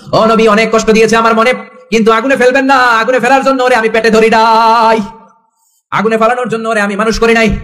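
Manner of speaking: high, chanted wail of a pleading mother; imitating a mother begging for her son; retold desperate plea. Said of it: "চিৎকার দিয়ে বিশ্বনবীর পায়ে পড়ে যায়".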